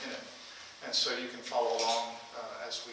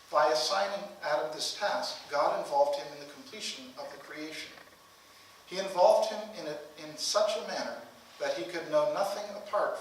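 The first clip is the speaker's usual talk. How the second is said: formal reading aloud; 3 semitones higher than usual. Acted. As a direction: read the passage out deliberately, with weighted phrases. Reads a book passage aloud.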